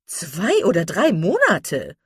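slow, loud, dismayed cry; outraged that it takes so long; aghast exclamation. A narrator's reading. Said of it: "rief Misses Jennings". (entsetzter Ausruf)

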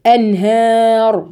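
أنهار with a thin ه, slowly; light ha, slow. Shown as a demonstration. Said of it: "مش أنها". (أنهار بهاء مرققة ببطء)

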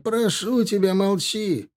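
high, desperate begging; pleading. Acted. Father begging his son to stop, high desperate plea. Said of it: "взмолился Ихаб".

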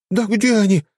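high squeaky panicked cry; panicking. A narrator's reading. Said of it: "паниковала наводчица".

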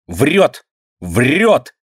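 put-on high, furious girl's outburst; sudden fury. A narrator's reading. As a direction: spit it out in sudden rage. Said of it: "С неожиданной яростью вскакивает Динка".

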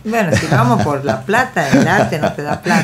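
dicho entre risas, más fuerte; suéltalo riéndote de la obviedad; riendo. Real, not acted. Bromea sobre arte y dinero. (entre risas, bromeando sobre la plata)

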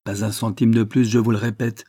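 impatient, repeating himself. Acted. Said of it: "dit Wilfrid avec impatience".

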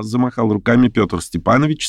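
plain reading voice

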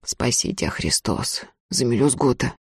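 put-on a starving boy hoarsely thanks Ustinya. A narrator's reading. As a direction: force the thanks out hoarsely, barely voiced. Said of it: "Хрипло выговорил".

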